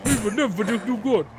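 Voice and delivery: losing it, can't calm down; high agitated rant; worked up. Acted. Refuses to calm down.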